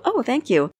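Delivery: accepting a compliment with put-on delight; gushing thanks. Shown as a demonstration. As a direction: gush a little over the compliment. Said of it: "you might say".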